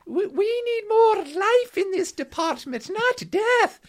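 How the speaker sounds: high, slow imitation with a German accent; high-pitched German accent. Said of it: "he had a very high-pitched voice and a German accent".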